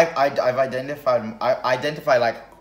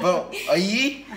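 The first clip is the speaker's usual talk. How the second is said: laughing mock question; 8 semitones higher, 4 dB louder, much slower than usual. Mocking a made-up heritage claim.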